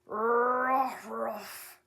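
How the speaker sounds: voiced dog barking. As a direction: bark like a dog. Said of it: "exclaimed the watchdog".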